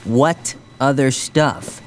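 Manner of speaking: slow, deliberate repeated question; slow insistence. Acted. Jughead pressing Archie for an answer, slow and insistent. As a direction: space out "What other stuff?", pressing for an answer.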